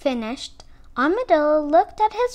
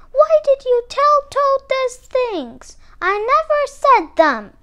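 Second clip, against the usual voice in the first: higher, louder indignant Alligator; angry snapping; 12 semitones higher, 8 dB louder than usual. A narrator's reading. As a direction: snap it out as a scolding accusation. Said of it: "she snapped".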